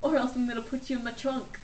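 fast, lightly put-on Australian accent; a hint of a pushy singer accent. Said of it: "that singer impression".

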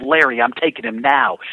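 mock yell. Driver warning Larry before passing somebody, mock yell. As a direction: imitate a driver yelling out, without full force. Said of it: "I'm gonna yell out".

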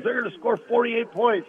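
high-pitched mock coach tirade; retold yelling. Coach going ballistic on his defense, high mock yelling. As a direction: imitate a coach screaming at his players, pitch way up. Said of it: "he's yelling and screaming at him".

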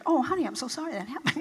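soft, quick mock-sweet sympathy; sympathetic. What she should have said to her husband, softly sympathetic. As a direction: soothe him, gently, a bit hurried. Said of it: "I should go".

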